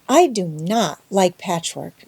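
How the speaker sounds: slow, sulky complaint; doleful. Acted. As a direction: drag the words unhappily. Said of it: "said Anne dolefully".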